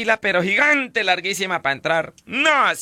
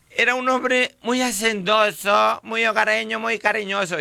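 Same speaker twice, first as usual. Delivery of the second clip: mourning widow; 4 semitones higher than usual. Retold or imitated. Widow praising her dead husband at the funeral, mock lament. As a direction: wail the praises like a hammed-up grieving wife.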